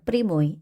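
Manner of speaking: 프리모이 with ya said as i; unstressed ya as i. Shown as a demonstration. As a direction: say 프리모이, stress on the o. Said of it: "우리는 프리모이 이렇게".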